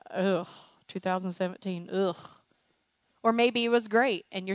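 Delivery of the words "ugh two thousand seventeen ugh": acted groan of dismay at the past year; mock disgust. Congregant looking back on twenty seventeen, mock disgust. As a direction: groan it out in distaste.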